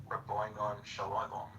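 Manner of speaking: put-on English accent. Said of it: "like the English accent way".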